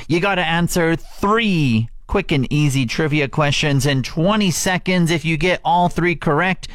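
upbeat radio giveaway pitch; radio contest promo. Acted. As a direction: hype up the contest for callers.

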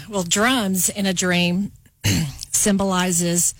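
coughing, throat catching; clearing throat while choking; choking on a drink. Real, not acted. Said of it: "I'm choking here".

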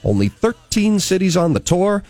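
lively morning-radio patter with swooping emphasis; radio host announcing. Acted. Host plugging a ticket giveaway and introducing a guest, radio announcer delivery. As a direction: punch the key words like a radio presenter.

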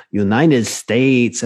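slow Latino accent imitation; drawn-out Latino-accented answer; Miguel. Kitchen manager answers border officer, in Latino accent. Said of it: "that's exactly the way he talks".

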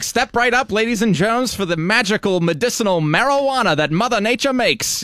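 high, showy medicine show pitchman; snake oil seller. Retold or imitated. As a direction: hawk it like a carnival barker. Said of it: "pitching medicine at ... a band".

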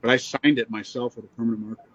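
choppy cutting-out call audio; words dropping out over a bad line; glitching audio. Real, not acted. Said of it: "you keep cutting out on your audio".

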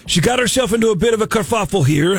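bad fake Canadian accent; a hammy Canadian accent. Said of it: "the worst Canadian accent ever".

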